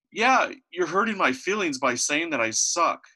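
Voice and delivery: high, slow mock-tearful whine; imitated crying child. Son telling dad he's hurt, imitated tearful complaint. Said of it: "and he, and he's crying".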